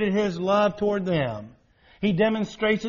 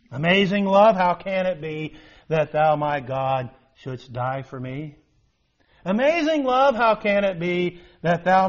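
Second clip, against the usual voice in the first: recited hymn. Acted. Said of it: "the words of a song that's found in our hymn book".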